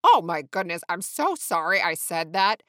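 loud, blurted apology; over-emphatic, gushing sorry; flustered apology. A narrator's reading. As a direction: jump in, mortified. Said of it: "interjected Sean".

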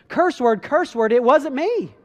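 loud, high, drawn-out protest; acted outburst, building to a stretched yell; retold angry denial. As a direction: swear you had nothing to do with it. Peter's angry third denial, acted.

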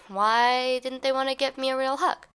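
wondering aloud, slightly confused; a little confused. Acted. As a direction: voice a hurt little question. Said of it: "left there a little confused".

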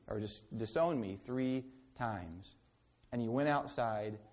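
measured public reading of the passage; scripture reading. Acted. Preacher reads scripture to the congregation, measured. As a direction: read the story to the congregation.

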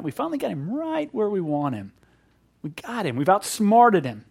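gloating Pharisees. Retold or imitated. Preacher voicing scribes gloating over trapping Jesus, smug. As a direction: crow like schemers who think they've won. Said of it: "they thought they'd finally come up with this scheme".

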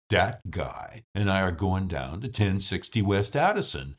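relaxed Chicago accent, T's turned to D's; easygoing Midwest Chicago accent. Shown as a demonstration. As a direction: talk like a Chicago local off to the ballgame. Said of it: "The Chicago accent is a more relaxed accent".

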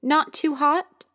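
lightly voiced child copying a fussy mother; child's mock-careful warning, slow; child mimicking an adult. A narrator's reading. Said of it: "her voice mimicking one she must have heard from an adult".

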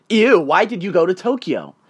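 mild mock disgust, imitating a judgmental stranger. Stranger's wife judging a traveler at the bar, mock disgust. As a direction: recoil on "Ew", imitating disapproval. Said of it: "giving me the most disgusting look ever".

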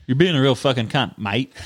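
normal delivery with Australian "mate" tacked on; lightly put-on Australian, dropping on "mate"; attempted Australian accent. Shown as a demonstration. Following friend's tip to add mate, light Australian accent. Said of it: "say it normal and put mate at the end".

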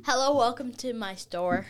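child's attempt at an Indian accent; amateur Indian accent. Shown as a demonstration. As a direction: put on an Indian accent, as a shopkeeper greeting. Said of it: "I'm sort of good at Indian".

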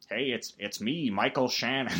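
a hint of a brooding actor, introducing himself; mild mock Michael Shannon; Michael Shannon impression. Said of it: "I do a great impression of him".

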